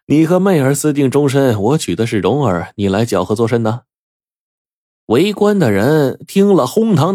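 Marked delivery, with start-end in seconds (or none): 0.1-3.8 laughing. Acted. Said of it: "那公子大笑说".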